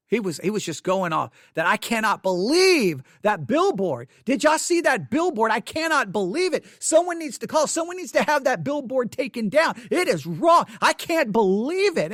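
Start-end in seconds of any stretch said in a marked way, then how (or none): 1.7-12.1 imitating an indignant sergeant, a touch raised; ranting about the billboard, lightly acted; mild retold outrage. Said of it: "he was ticked off".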